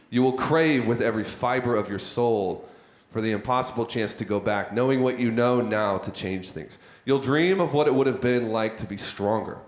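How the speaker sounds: intense, solemn inspirational reading; stirring, weighty read of a post; dramatic reading. Acted. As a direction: read it like a motivational speech. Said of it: "read this out to you the way that it's designed to, to feel".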